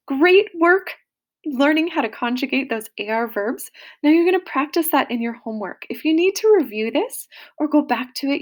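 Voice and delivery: cheerful, brisk teacher wrap-up; upbeat sign-off. Real, not acted. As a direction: send them off to homework with energy. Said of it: "teacher sign-off to class".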